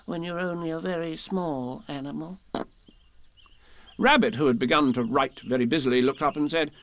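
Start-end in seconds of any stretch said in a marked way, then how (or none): 0.0-2.4 a small voice close to sniffles; sniffing Piglet. A narrator's reading. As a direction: Piglet sniffing as he defends himself. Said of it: "sniffing slightly".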